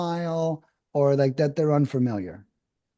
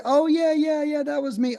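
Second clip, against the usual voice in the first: eager seller voice; 10 semitones higher than usual. Acted. Role-plays seller answering sales call.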